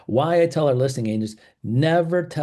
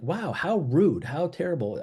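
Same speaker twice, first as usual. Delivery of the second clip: mock offended; 4 semitones higher than usual. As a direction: act mildly affronted, pitched up and slowed. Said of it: "now they have emotions involved".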